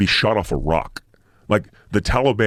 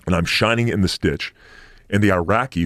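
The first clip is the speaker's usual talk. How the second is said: ordinary delivery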